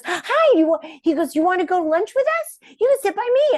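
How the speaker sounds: put-on high, fast, childlike invitation; imitating Johnny. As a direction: bounce it high like an eager kid.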